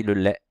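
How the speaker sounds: lait said with an open è, as in mère; le lait with a wide open è; open è variant. Shown as a demonstration. Teacher showing her own way of saying it, open è. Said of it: "Moi je dis".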